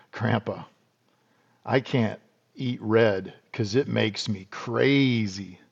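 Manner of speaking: a hint of a small boy, slowed right down; grandson's voice. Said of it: "my grandson looks at me and goes".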